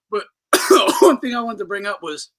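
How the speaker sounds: talking through coughs; coughing fit. Real, not acted. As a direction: push the words out past a cough. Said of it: "I'm choking my fucking lungs out over here".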